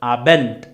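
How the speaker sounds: "Abend" with a T at the end; final D as T. Shown as a demonstration. Teacher repeating the corrected word, final D as T. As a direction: finish "Abend" on an unvoiced T sound. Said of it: "ending D spelt as T".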